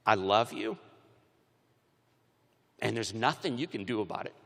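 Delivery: low, understated declaration of love; tender father. Retold or imitated. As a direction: say it gently and low, as a dad would. Father's tender words retold.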